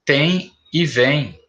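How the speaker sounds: Tem e vem said slowly and clearly; slow classroom example; slow demo words. Shown as a demonstration. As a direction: lay out Tem e vem one word at a time. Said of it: "É um erro bem comum".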